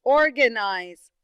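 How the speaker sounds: organize said slowly and loudly, each syllable clear; teacher modelling organize slowly; slow model word. Shown as a demonstration. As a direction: spell out or-ga-nize syllable by syllable. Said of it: "Like the word".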